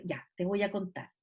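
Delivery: TE VOY A CONTAR low and soft, then a pause; suspenseful pause. Shown as a demonstration. Teacher showing spoken ellipsis, TE VOY A CONTAR low then paused. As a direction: drop the voice on TE VOY A CONTAR and leave them waiting. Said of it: "Y hago una pausa".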